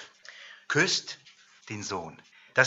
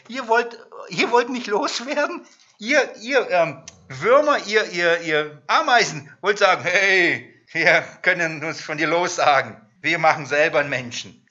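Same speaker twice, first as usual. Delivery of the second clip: höher, spottende Stimme Gottes; verhöhne die Würmer von oben herab; spöttisch; 3 semitones higher, 5 dB louder than usual. Acted. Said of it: "der Herr spottet über sie". (Gott verspottet die Völker, höher und lauter)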